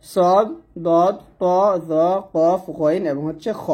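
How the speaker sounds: সদ, দদ, ত with full, rounded heavy sound; heavy Arabic letters. Shown as a demonstration. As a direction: say each letter heavy, drawn out and separate. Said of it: "এই সাতটা হরফ হচ্ছে মোটা হরফ". (সদ, দদ, ত মোটা করে উচ্চারণ)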